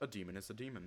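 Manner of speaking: terse, clipped character voice, words spoken sparingly. Asking Loken about demons, answering in a Loken voice. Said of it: "I put on my best Loken voice".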